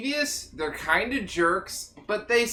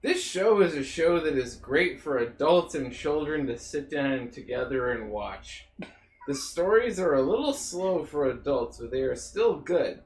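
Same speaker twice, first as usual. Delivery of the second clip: reading aloud; 3 semitones lower than usual. Shown as a demonstration. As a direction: read it out like a review. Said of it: "If I may read it".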